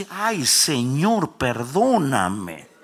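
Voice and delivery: drawn-out, loud wail for forgiveness, hammed-up; trembling plea. Preacher reenacting his plea after recognising God's voice, wailing. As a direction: beg God in long, swooping cries. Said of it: "Temblé porque identifiqué la voz".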